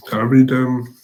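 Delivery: talking through a mouthful; words round a bite of food; wolfing down food. Real, not acted. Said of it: "are you eating?".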